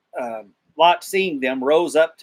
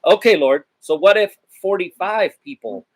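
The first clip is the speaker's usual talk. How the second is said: higher, louder bargaining plea; eager pleading Abraham; 6 semitones higher, 6 dB louder than usual. Retold or imitated. Abraham haggling with the Lord over the city, higher and louder plea. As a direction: push the Lord for a better deal.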